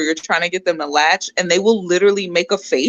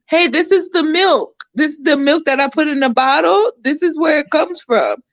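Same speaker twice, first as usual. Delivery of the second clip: gently explaining; 8 semitones higher than usual. Retold or imitated. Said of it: "I try to gently explain to her".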